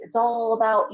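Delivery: usual speaking voice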